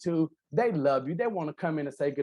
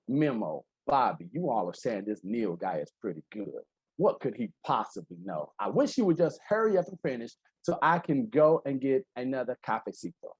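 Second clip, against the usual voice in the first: bored skeptic; 4 semitones lower than usual. Retold or imitated. Skeptical attendee grumbling to Memo and Bobby, low and bored. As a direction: grumble it like a doubter who'd rather get coffee. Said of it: "You're that person that says".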